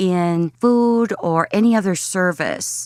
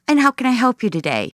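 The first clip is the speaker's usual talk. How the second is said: friendly service voice; 5 semitones higher, faster than usual. Shown as a demonstration. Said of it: "So something like customer or".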